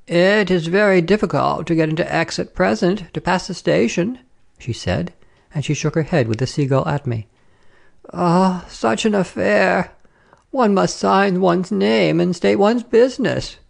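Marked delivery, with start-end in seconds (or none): 0.1-4.2 higher-pitched fussy French madame; officious lady traveller. Acted. Voices the lady opposite. 8.1-13.6 high, slow, drawn-out complaint of a madame; officious lady traveller, exclaiming. Acted. Voices the lady opposite.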